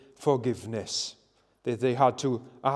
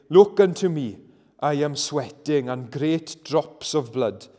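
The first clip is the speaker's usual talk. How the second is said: preaching. Retold or imitated. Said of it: "went on to say about Christ".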